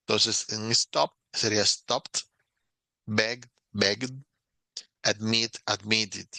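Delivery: stop, stopped, begged, admit, admitted in careful English; English pronunciation model. Shown as a demonstration. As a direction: say the doubled consonant clearly. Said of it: "ese sonido fuerte se alargara".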